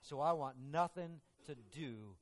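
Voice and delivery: a hint of a sneering soldier; lightly voiced mocking Roman soldier; scornful soldier. Soldier on witness stand rejecting Jesus, scornful.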